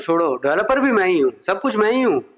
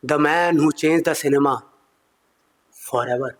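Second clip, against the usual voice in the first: very slow, dramatic headline read; grand announcer voice; much slower than usual. Pretend. Magazine cover proclaims his fame, slow trailer voice.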